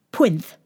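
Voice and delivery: Pwinth with w for r and th lisp; lisping prince. Acted. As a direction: Pwinth said pwinth through the teeth. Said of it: "It's these teeth".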